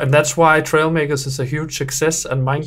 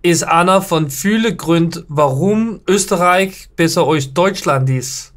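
Carinthian accent; 3 semitones higher than usual. Shown as a demonstration. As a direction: read the German line in a mild Carinthian accent. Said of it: "read this text in a Carinthian accent".

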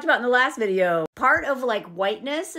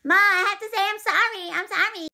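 acted apology to mom; 7 semitones higher than usual. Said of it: "shaking his mom, or he's like".

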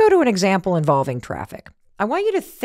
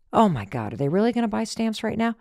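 exasperated; 4 dB quieter than usual. Retold or imitated. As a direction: grumble it fast under your breath. Impatient customer in line.

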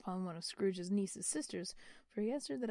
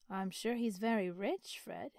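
hinting. Acted. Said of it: "hinted Scrooge's niece".

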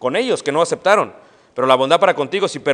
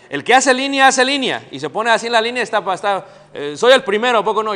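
mock line-jumper; 5 semitones higher, 4 dB louder than usual. Preacher acts out line-cutter.

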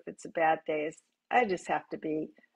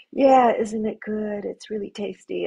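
soft voice to birds; 2 semitones higher, 3 dB louder than usual. Shown as a demonstration. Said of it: "talk to them in a soft voice and say".

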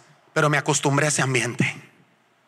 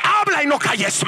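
proclaimed; 10 semitones higher, slower than usual. Retold or imitated. Preacher repeating God's order to him, now proclaimed. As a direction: boom "Habla y no calles" like a command from above.

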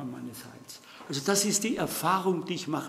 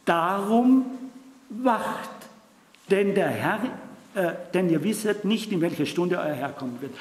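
raised, urgent "wacht"; urgent scripture call; 2 semitones higher, 3 dB louder than usual. Acted. Preacher voicing Jesus' call to stay awake, urgent. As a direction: ring out the warning to keep watch.

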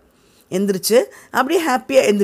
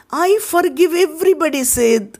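mock dying voice; 8 semitones higher, much slower than usual. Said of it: "சாகுற ஆள்".

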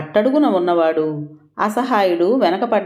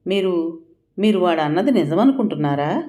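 hesitant; 2 semitones higher than usual. Acted. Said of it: "అడగలేక, అడగలేక అడిగింది".

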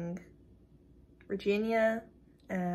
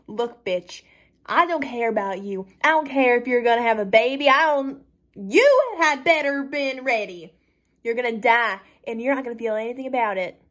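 raised, forceful killer's retort; merciless threat; 4 semitones higher, 4 dB louder than usual. Acted. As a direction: lay down a death threat with no pity. Killer coldly answers begging victim.

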